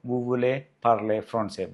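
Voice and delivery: very slow, word by word; slow French model. Shown as a demonstration. Teacher giving students the formal version slowly. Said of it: "എങ്ങനെ വേണമെങ്കിലും ചോദിക്കാം".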